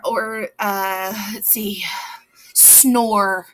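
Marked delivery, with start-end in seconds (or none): 2.5-3.5 "snore" with a long, held "or"; teacher sounding out "snore"; drawn-out OR sound. Shown as a demonstration. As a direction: stretch out the OR in "snore". Teacher showing OR sound words.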